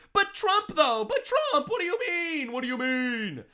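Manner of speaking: very high, drawn-out mocking wail; hammed-up squeal of protest; mock whining objector. Mimicking objectors to the senator.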